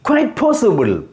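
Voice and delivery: QUITE as a single "kwait" beat; QUITE pronounced together. Shown as a demonstration. Teacher repeating a one-syllable example, QUITE joined into one beat. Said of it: "together pronounced".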